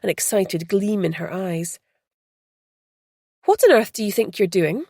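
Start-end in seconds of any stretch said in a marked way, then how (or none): 3.5-4.9 louder, sharp demanding question; angry demand. Acted. Beth confronting the tourist, angry demand. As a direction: confront her straight away. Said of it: "she demanded angrily".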